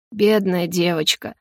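lightly voiced old executioner; creaky old man. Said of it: "по-стариковски проскрипел палач".

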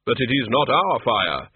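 slow and grave, unhurried; Death's slow, measured voice. Acted. Death greets the tiny Death of Rats, slow and grave. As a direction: speak as a calm figure of Death.

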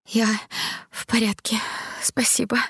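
breathless whisper. Acted. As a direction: barely get the words out. Королева не может отдышаться. (шёпотом, едва переводя дыхание)

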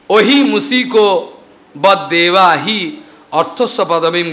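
slow chanted verse, each word weighed; sanskrit recitation. Acted. Storyteller reciting the Lord's verse, slow and chanted. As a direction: intone the scripture line slowly.

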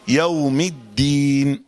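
"يوم" held very slowly but not overlong; slow, precise "يوم الدين"; short lin vowel. Shown as a demonstration. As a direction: recite "يوم" with a measured lin stretch. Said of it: "يوم، ما يزيدش عن كده".

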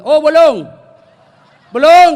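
loud, punchy comic outburst; hammed-up shout; mock exclamation. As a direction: blurt it out very loud and high for laughs. Acting out a mocking husband's cry.

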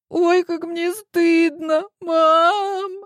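put-on a teen mortified before her mom; high, slow sniffling girl; ashamed girl. A narrator's reading. Ashamed daughter after crying.

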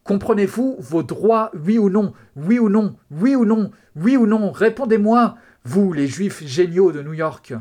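high, very loud enraged bellowing; yelling. A narrator's reading. Cop demanding an answer from his prisoners, yelling. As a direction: hammer out the demand in a raging shout. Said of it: "leur hurla le flic".

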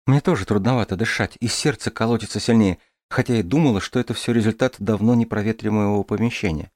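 put-on light, lively girl's voice; young woman voice. Дарья говорит. (голос девушки)

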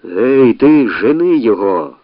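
loud jeering yell; shouting. Acted. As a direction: drive him off with a shout. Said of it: "закричали на всі лади".

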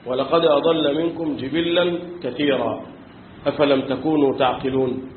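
slow, measured recitation; tajweed-style recitation of the verse; Quran recitation. Acted. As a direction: chant the verse slowly.

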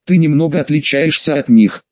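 lightly hoarse evil queen. Acted. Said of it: "хрипло сказала".

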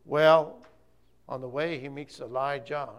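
ordinary delivery

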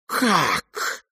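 high, cracking cry; cry of shock. A narrator's reading. Aglaya to the prince, a shocked cry. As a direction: gasp it out, lip trembling. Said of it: "вскричала Аглая".

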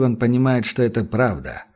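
usual speaking voice

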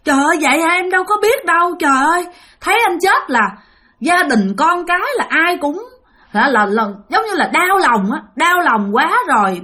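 imitating a wife begging forgiveness; a wife pleading with her dead husband's spirit, mildly tearful. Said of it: "năn nỉ các bạn".

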